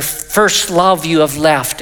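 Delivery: "first love" leaned on at the front; slow, deliberate emphasis on "first love"; stress on "first love". Shown as a demonstration. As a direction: put the weight on "first love", slowly. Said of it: "It puts the emphasis on the fact".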